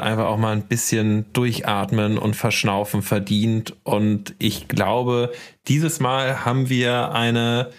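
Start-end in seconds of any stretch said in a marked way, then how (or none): none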